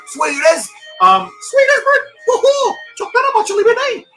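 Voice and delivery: high, loud excited Kiwi shout; broad kiwi accent. Acted. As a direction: belt it out like a hyped Kiwi bro. Excited Kiwi slang hype outburst.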